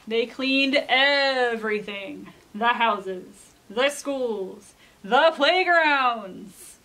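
slow, stretched-out list; dramatic storybook narration. A narrator's reading. Alpacas clean the whole town, dramatic storyteller. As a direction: draw out each place for the children. Reads a picture book aloud.

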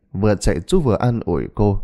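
plain reading voice

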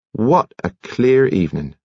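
usual speaking voice

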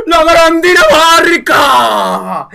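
high, loud, slow drawn-out cheer; real victorious yelling; triumphant shout. Real, not acted. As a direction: bellow the country's name in triumph. Cheering the Denmark guess.

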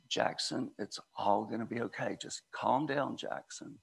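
put-on half-whispered reassurance to a fussing child; hushed calming dad. Worn-out dad half-whispering to calm his screaming son. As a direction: breathe it out softly, hold your patience.

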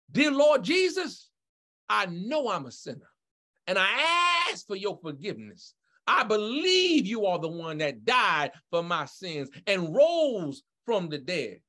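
phrase-by-phrase prayer with pauses to repeat; slow led prayer. Shown as a demonstration. Pastor leads newcomers in sinner's prayer, slowly. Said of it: "I'm gonna say them slowly with you".

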